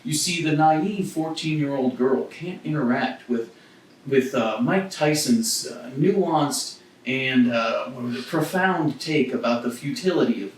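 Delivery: mock pretentious. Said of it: "It was like".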